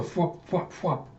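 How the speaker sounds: quick spoken "fwop" effect; imitated flapping noise. Narrator mimicking the bugs taking off, sound effect.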